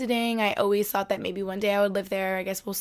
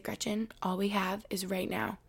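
soft, hushed, almost whispered wisdom; imitating a quiet hush; 6 dB quieter than usual. Quoting her calm partner Arlen, softly whispered. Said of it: "he gets really quiet and he's like".

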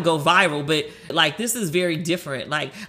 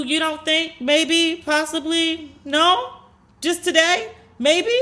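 pitched way up, slow and teasing; coaxing disbelief; 9 semitones higher, slower than usual. Retold or imitated. Her driver teasing her about being famous, high coaxing. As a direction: draw it out like you can't believe her. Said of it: "And he was like".

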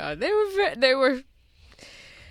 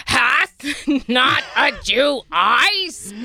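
hammy Shakespeare; slower than usual. Acted. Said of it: "One more time, please".

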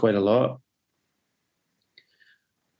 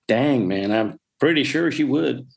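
bad mock American accent, rising higher at the end; Ron's terrible accent; 3 semitones higher than usual. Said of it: "that was a terrible accent".

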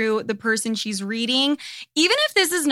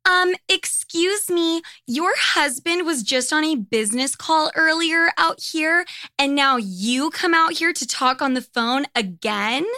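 higher-pitched, mock-polite complaint; put-on voice of an affronted lady; disapproving hotel neighbor; 4 semitones higher than usual. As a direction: imitate a nosy neighbor scolding, pitched up. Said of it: "but she was like".

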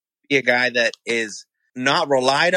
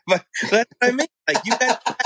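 cracking up mid sentence; fast, laughing through the words; 9 semitones higher than usual. Real, not acted. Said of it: "couldn't even keep a straight face".

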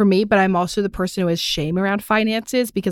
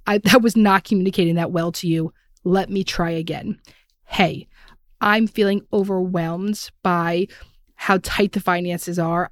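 calm apology. Shown as a demonstration. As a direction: gently own the mistake to your partner. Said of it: "catch the bullet and say".

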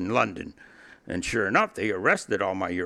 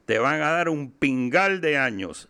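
put-on higher-pitched, thick Cuban-accented Spanish; super Cuban accent; 5 semitones higher, 3 dB louder than usual. Cuban lawyer delivers bad news to client, super Cuban accent. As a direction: imitate a very Cuban street Spanish. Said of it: "like in a super Cuban accent".

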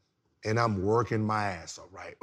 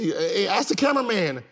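much higher and louder mock complaint; arguing back to the trainer in a much higher, louder indignant voice; indignant protest; 9 semitones higher, 3 dB louder than usual. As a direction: squeak out the protest like you've been wronged. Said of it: "I said".

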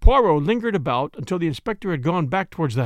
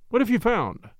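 higher-pitched, curious question; eager cry; 6 semitones higher than usual. A narrator's reading. Doctor asking what detective has found, eager cry. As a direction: press for the answer, pitch lifted. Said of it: "I cried".

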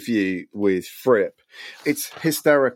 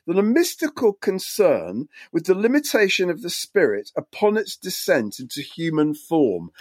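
light West Country accent, slightly higher; 3 semitones higher than usual. Shown as a demonstration. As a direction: read it with a touch of West Country burr. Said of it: "I should read this in a West Country accent".

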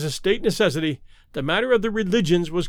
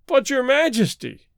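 higher-pitched, mildly wailed protest; wailing; 6 semitones higher than usual. A narrator's reading. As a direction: plead with a touch of a despairing wail. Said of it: "he wailed".

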